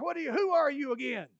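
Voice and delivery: high, loud riled-up shout; hollering back. Acted. Abner riled up, shouting back at David. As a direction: yell back, riled up and indignant. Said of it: "he hollered back".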